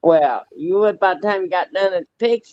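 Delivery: loud invitation. Real, not acted. Inviting her friend down to South Carolina, loud and hearty. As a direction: boom it out like you're hollering across the yard.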